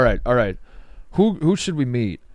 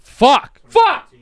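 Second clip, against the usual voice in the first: loud, high frustrated curse; frustrated shout; 12 semitones higher, 7 dB louder than usual. Real, not acted. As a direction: blurt it out in real annoyance. Frustrated outburst over Jane Lynch.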